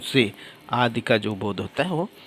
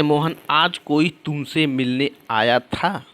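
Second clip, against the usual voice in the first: slow example reading; 2 semitones higher than usual. Shown as a demonstration. Reads example sentence out slowly.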